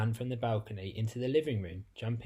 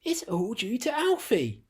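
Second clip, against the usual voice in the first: slightly breathless; 11 semitones higher, 6 dB louder than usual. A narrator's reading. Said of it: "slightly breathless".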